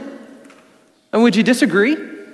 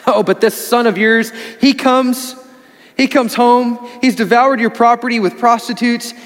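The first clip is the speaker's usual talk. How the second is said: resentful elder son; 3 semitones higher, 3 dB louder than usual. Retold or imitated. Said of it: "He says".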